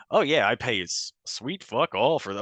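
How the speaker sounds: hammed-up American podcaster; imitating an American. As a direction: mimic an American trying out British swearing. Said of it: "an American goes".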